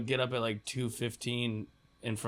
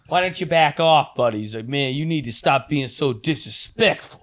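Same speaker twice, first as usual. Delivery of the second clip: lightly playing the stern bouncer; mock security guard; 3 semitones higher, 5 dB louder than usual. Retelling the guard scolding friend Mike, mock tough. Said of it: "That's how K R S Two was talking".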